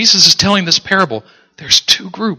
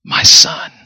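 breathy whispered father; tender whisper. Acted. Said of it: "listen to what the father says".

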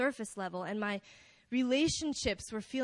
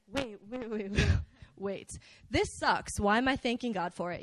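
laughing double take; 2 semitones lower than usual. Retold or imitated. Stopping himself mid-prayer with a laugh. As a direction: catch yourself and chuckle.

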